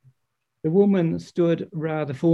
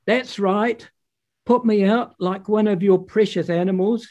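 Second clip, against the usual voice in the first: put-on much higher, louder furious girl; screaming; 7 semitones higher, 4 dB louder than usual. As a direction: scream it at her mother. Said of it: "she screamed at Mother Earth".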